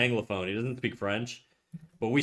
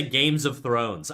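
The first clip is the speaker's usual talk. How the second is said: put-on slow Games of Thrones in a light French accent; mom's French accent; 2 semitones lower, much slower than usual. Mom mangling the show title, light French accent. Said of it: "a French accent when she speaks".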